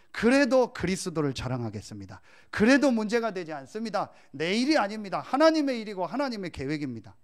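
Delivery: loud, emphatic declaration of faith; fervent confession. Retold or imitated. Pastor reliving his prayer before preaching, loud fervent confession. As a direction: proclaim it earnestly, pushing each phrase out. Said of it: "삼십 초간을 간절히 했어요".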